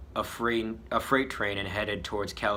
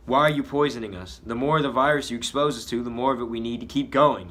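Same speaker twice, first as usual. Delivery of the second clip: louder, higher accusing shout; 3 semitones higher, 6 dB louder than usual. Acted. Max accusing the poisoner, louder shout. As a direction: hurl the accusation. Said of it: "he shouts".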